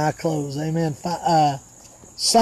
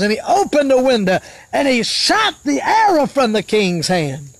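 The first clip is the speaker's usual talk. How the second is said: raised, declaiming sermon storytelling; fervent preaching; 5 semitones higher than usual. Real, not acted. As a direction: preach the Bible story in swinging, punched phrases.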